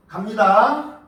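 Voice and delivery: usual speaking voice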